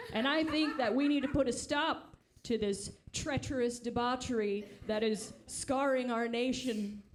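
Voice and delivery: fiery preacher cadence, lightly done; half-hearted hellfire preaching; mock sermon. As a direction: rail against sin like a pulpit preacher. Mock preacher debate argument.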